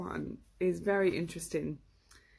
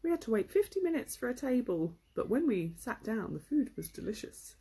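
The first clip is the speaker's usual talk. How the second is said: imitating parents; 4 semitones higher than usual. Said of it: "something my parents would say".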